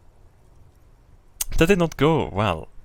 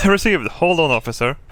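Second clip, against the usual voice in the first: high, loud radio dispatcher; 4 semitones higher, 7 dB louder than usual. Acted. A dispatcher confirms the call in a high loud voice. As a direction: snap it out like a dispatcher.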